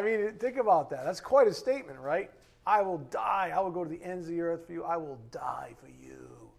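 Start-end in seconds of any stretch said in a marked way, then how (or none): 2.7-4.8 emphatic mock-heroic pledge, rushing on; preacher voicing Peter's grand promise; bold vow. 4.8-6.5 slow, whispery pledge; solemn acted promise, trailing into breath; hushed vow. Peter's vow repeated for effect.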